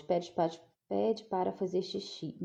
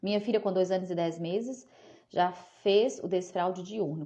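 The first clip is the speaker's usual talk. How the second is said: ordinary delivery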